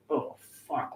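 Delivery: hushed, stunned swearing; soft, dismayed murmur; stunned realization. Retold or imitated. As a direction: swear under your breath as it sinks in. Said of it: "like that".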